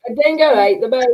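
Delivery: put-on playful go at an Australian accent; badly faked Australian accent; attempted Australian accent. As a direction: have a shaky try at an Australian accent. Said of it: "I can't".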